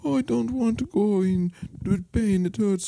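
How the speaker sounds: high-pitched imitation of an old Jamaican woman; old Jamaican lady. Old Jamaican lady wheeled in by her granddaughter, high imitated accent. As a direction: put on an elderly Jamaican accent, pitched well up. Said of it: "this old Jamaican lady is".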